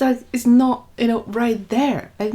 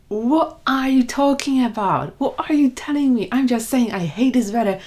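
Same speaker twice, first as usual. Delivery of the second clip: higher-pitched mock indignation; indignant disbelief; 5 semitones higher than usual. Grown-up answering a friend who scolded her, mock indignant. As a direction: protest in a raised, incredulous pitch.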